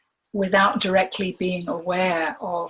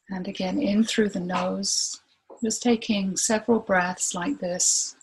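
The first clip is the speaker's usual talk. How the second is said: unhurried meditation guide, long pauses between phrases; guided meditation. Real, not acted. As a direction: gently guide them inward, leaving room to breathe.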